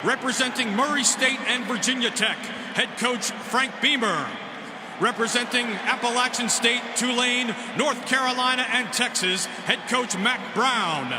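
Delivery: booming PA announcer voice; echoing stadium announcer. Acted. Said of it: "back to our P A announcer".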